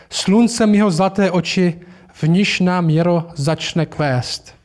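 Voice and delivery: slow, solemn recited verse; poem recital. Acted. Mr Beaver solemnly reciting the old poem to the children. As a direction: chant the old prophecy slowly.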